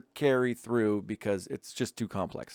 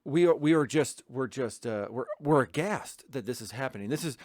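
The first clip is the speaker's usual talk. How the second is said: mock aghast officials; 4 semitones higher, 4 dB louder than usual. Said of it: "the stance becomes".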